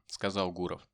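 ordinary delivery, nothing marked

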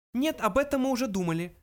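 high little mouse, dismissive. A narrator's reading. Mouse answers Arthur's question, high voice. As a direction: wave the idea away in a high voice. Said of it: "ответил Фрэнки".

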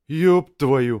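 sudden loud swear; startled curse. Acted. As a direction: blurt it out in shock.

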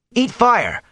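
high, loud eager shout; excited shout. A narrator's reading. Boy in the crowd shouting at the gleeman, high and loud. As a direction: yell it from the crowd. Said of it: "Mat shouted".

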